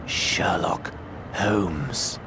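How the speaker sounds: very slow whispered name; dramatic reveal. Acted. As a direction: breathe out the name slowly like a secret.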